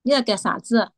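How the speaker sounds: said in Chengdu Sichuanese, every syllable given force; firm Chengdu Sichuan dialect, punchy rhythm. Shown as a demonstration. Guest demos Chengdu dialect for the host, in firm Chengdu Sichuanese. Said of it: "我学一下成都话哈".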